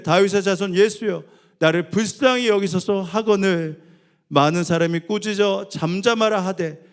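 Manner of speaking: fervent Bible reading; loud scripture reading. Acted. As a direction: proclaim the text to the hall.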